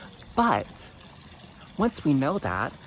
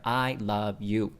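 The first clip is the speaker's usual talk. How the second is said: slow affirmation; 2 semitones lower, slower than usual. Shown as a demonstration. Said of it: "tell yourself in that mirror".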